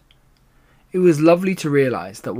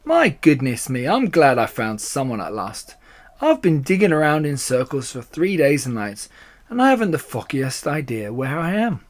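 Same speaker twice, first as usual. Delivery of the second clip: lively storybook badger, mildly exasperated; animated animal character voice; relieved, flustered Badger; 4 dB louder than usual. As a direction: play a lost badger glad of company.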